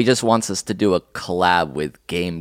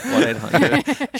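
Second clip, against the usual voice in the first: mock phone voice; slower than usual. Joking phone dial bit.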